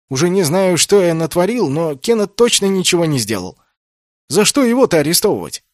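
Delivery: high, loud indignant pleading; indignant protest. A narrator's reading. Naoki protesting to Masaona about the arrest, high indignant voice. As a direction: protest hotly on a friend's behalf.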